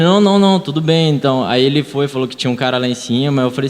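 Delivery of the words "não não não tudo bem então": higher, louder hurried "não, não, não"; frightened quick refusals, higher and louder; scared backing off. Retold or imitated. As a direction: imitate the robber retreating in fright. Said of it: "eu percebi que ele sentiu medo".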